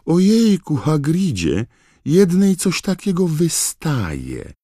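very high, loud alarmed squeal; put-on girlish shriek. A narrator's reading. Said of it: "krzyknęła znowu Lavender Brown".

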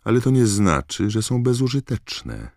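high-pitched irritated retort; acted indignant Hermione; snapping. A narrator's reading. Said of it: "warknęła Hermiona".

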